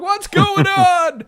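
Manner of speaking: high, loud, very slow bewildered cry; mock confused crowd; drawn-out confused wail. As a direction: stretch it out like a baffled drunk crowd. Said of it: "everybody be like".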